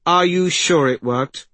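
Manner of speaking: high, loud, anxious question; doubting young girl. Acted. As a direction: question her urgently as the girl.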